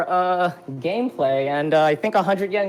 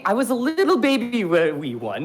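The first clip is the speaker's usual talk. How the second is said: mock baby talk. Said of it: "No, I'm just kidding".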